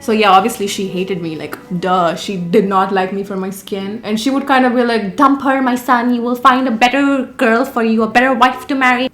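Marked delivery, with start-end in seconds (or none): 5.2-9.1 mock Indian mother accent; put-on Indian accent. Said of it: "why I'm talking in that accent".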